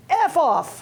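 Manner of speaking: a laughing, high mock yell; retold yell. Young chemist telling off the harasser, laughing yell. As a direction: shout it out through laughter, hammed up. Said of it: "just yelled it".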